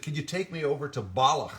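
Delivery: lightly voiced Scottish hitchhiker; Scottish accent. Hitchhiker asking for a lift, Scottish accent. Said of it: "It was just such a thick accent".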